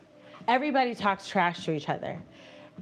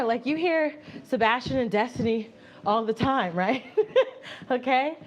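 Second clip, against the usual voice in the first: laughing; 4 semitones higher than usual. Real, not acted. Laughs about bickering streamers.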